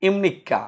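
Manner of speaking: ইমনিকা said with a held double k, im-nik-ka; ইমনিকা with the k doubled and a falling end; teacher's model ইমনিকা; Korean imnikka. Shown as a demonstration. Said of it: "দ্বিতীয়টা".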